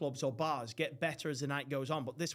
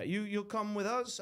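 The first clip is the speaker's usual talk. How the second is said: put-on slow, halting foreign accent; put-on Borat-like accent; Emerson's accent, badly done; 4 semitones higher than usual. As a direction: imitate a friend's accent, hammed-up and inaccurate. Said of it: "but I can't do his accent".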